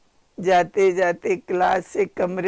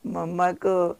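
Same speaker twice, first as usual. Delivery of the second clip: said very lovingly. Retold or imitated. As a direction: ask it tenderly, like a mother teasing a child. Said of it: "बहुत प्यार से बोली".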